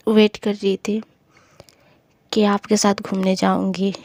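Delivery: soft, hushed plea with whispered words; very lovingly. Acted. Rashmi soothing Roshni up close, soft and whispery. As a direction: murmur close to her face, begging tenderly. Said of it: "कहती है बहुत ही ज़्यादा प्यार से".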